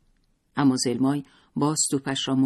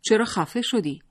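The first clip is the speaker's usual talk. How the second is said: growl; 8 semitones higher, 4 dB louder than usual. A narrator's reading. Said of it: "غرشی کرد و گفت".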